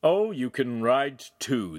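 slow sarcastic drawl; mock him gently; slow, scornful tease. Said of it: "the podesta mocked".

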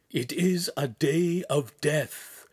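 slow, voiced lament in an altered voice; grief-laden, drawn-out pronouncement; pitiful whisper. A narrator's reading. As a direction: say it slowly, in pitiful mourning. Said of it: "the master finally whispered".

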